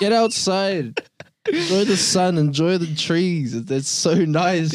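slow, dreamy hippie preaching. Pretend. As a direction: preach nature like a laid-back hippie. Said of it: "You sound like a hippie".

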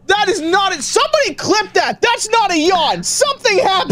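high, loud playful accusation; excited teasing. Real, not acted. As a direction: call him out, laughing.

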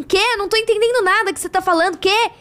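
high, hurried, confused mock call; imitated shouting over music. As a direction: act unable to hear over the party music. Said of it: "Música alta?".

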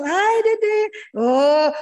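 put-on high, loud singsong to a little child; exaggerated delighted hello; gushing parent greeting. Shown as a demonstration. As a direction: coo it out with big enthusiasm. Models excited phone greeting to child.

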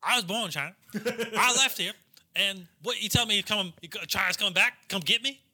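Chinese-born redneck. Acted. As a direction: protest in a Southern redneck accent. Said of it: "it's fully Chinese guy, but he's wearing".

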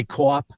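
"cop" with a Boston vowel; Boston pronunciation. Retold or imitated. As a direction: say "cop" the Boston way, vowel rounded toward "cawp". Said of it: "well, he can say".

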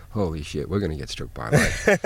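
hushed mock alarm, climbing at the end; retold private panic. Captain gone outside, away from the crew, hushed mock panic. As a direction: start low and soft, let the pitch rise in alarm. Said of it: "scared of, you know, really scared".

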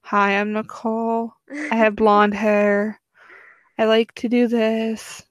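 a hint of a ditzy Nicole, slow; mock-sweet slow self-introduction; lightly voiced Nicole saying hi, slow; Nicole impression. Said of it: "go like this".

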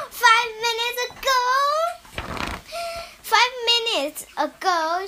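high, fast disbelieving echo; can't believe it; astonished. Acted. Gerald echoing Piggy in high, fast disbelief.

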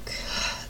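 imitated audible exhale; heavy breath. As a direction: breathe out to calm down. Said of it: "like breathing and stuff".

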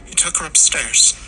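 high, distressed woman's voice; tearful mother. A narrator's reading. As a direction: answer through rising tears. Tearful mother answers officer.

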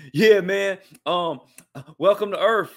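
loud, high movie-hero impression; Will Smith. Host greeting an alien on request, loud movie-star impression. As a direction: punch it out like a cocky action star. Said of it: "I could do a great Will Smith impression".

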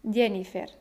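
Jennifer as YE-ni-fer, every vowel clear, falling; Spanish pronunciation. Shown as a demonstration. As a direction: keep all three vowels full in Jennifer, Y onset. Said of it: "pronunciar las vocales de manera clara".

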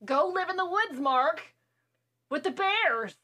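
high, loud mock scolding; mock yell. Friend yelling at the screen character, hammed-up banishing shout. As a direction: banish him with a big playful yell.

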